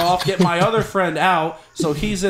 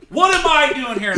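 higher, mocking her dumb question; mock girlfriend; 7 semitones higher, 3 dB louder than usual. Boyfriend mocking his caught girlfriend's words, higher mock voice. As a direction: imitate her clueless line, a bit higher. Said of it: "That was her words".

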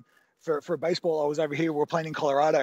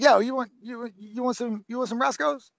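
higher, louder excited offer, mimicked; imitating a rapper; 8 semitones higher, 4 dB louder than usual. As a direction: play an eager big shot offering food. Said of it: "I'm not gonna do the accent".

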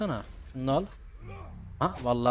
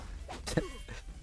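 laugh; 10 semitones higher, 12 dB quieter than usual. Real, not acted. Amused at own botched sentence.

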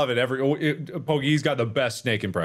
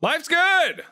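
bright high chirp; 4 dB louder than usual. Real, not acted. Cheerful high answer.

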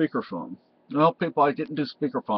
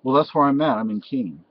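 put-on blackout drunk. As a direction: play a sloppy drunk caller. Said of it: "I'm so drunk right now".

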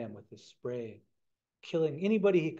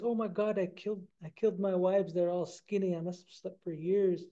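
shocked; 5 semitones higher than usual. Acted. Thinks he killed his wives.

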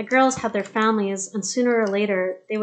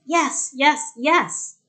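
higher, louder repeated yes; joyful shouts; 5 semitones higher, 4 dB louder, much slower than usual. A narrator's reading. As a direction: cheer it out, thrilled. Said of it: "shouted Petra".

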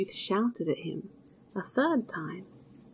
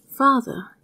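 louder, urgent cry of Father; pleading call; 5 semitones higher, 8 dB louder than usual. A narrator's reading. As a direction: son begging to be heard. Son pleading with angry father.

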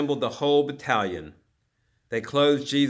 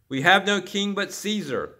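high-pitched, raised outcry; demonstrators' cry; 8 semitones higher, 4 dB louder than usual. A narrator's reading. Demonstrators reject Pilate's question, crying out. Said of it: "cried the demonstrators".

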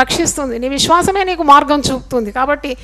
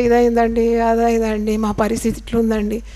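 whining complaint; 3 semitones lower, 4 dB quieter than usual. Retold or imitated. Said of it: "అని మీరు పలుకుతారు".

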